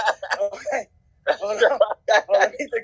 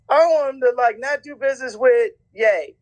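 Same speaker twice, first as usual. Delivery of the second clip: lightly hammed-up decree, starting higher; mock proclamation, pitched up at first; Ari Emanuel; 4 semitones higher than usual. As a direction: imitate an executive issuing an order. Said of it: "I'm Ari Emanuel".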